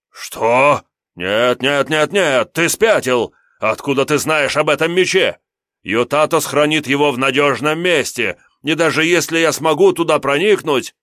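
high, loud frantic imp refusal; a cowardly demon begging off; panicky little demon. Acted. Imp demon voiced in story. (визгливый испуганный демон)

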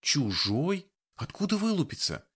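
high, bewildered questioning; alarmed questions. A narrator's reading. Frightened girl presses the wounded man for answers. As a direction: ask as if scared and lost.

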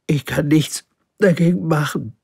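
apologise, bewildered; confused little prince. Acted. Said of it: "ganz verwirrt". (verwirrter kleiner Prinz, höher)

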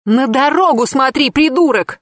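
a shrill furious shout back; yelling. A narrator's reading. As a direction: shout it at the driver. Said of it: "в ответ заорала я".

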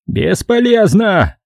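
high, slow despairing cry; desperate shout. A narrator's reading. Veteran contradicting the sergeant, high despairing. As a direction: shout over the battle. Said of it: "ещё громче крикнул ветеран".

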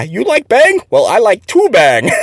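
high mock broken English, laughing on "two bang"; giggly accent imitation. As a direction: retell the punchline while giggling. Retelling the same quote.

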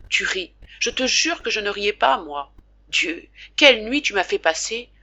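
put-on the good man talking nonstop so the boy won't; lightly voiced father. Father at the bedside telling his sick son the whole story, eager and chatty.

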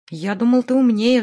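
plain reading voice

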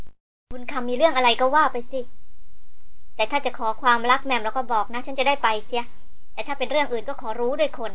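put-on gentle, unhurried coaxing to an old man; a hint of kindly encouragement. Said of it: "ด้วยน้ำเสียงกรุณาว่า". (เบลพูดกับบุญคำด้วยน้ำเสียงกรุณา อ่อนโยน)

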